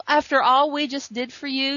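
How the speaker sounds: mildly affronted retold plea; indignant protest. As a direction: protest the unfairness, retelling it.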